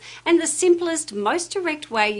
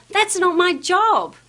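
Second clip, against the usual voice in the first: higher, louder, slow fed-up yell; 7 semitones higher, 5 dB louder, slower than usual. Shown as a demonstration. Staff member yelling at a customer, slow and loud. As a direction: blurt it out the way you wish you could. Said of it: "how many times do you want to yell".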